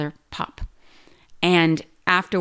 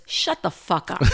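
quoting through laughter; laughing as you say it; laughing while quoting. Retold or imitated. Dad's crude retort, laughing.

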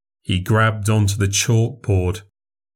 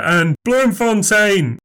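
"Bloemfontein" high and slow, savoured; drawn-out flourish; 11 semitones higher, slower than usual. Acted. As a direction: stretch "Bloemfontein" out grandly. Slow showy recital.

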